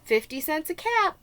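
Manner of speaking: loud, high street-seller's call; calling out wares. Acted. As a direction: sing out the caps to the whole street.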